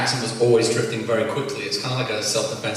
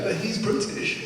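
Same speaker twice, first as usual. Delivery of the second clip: imitated retort; 10 semitones higher, 7 dB quieter, slower than usual. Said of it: "they give me abuse for sounding American".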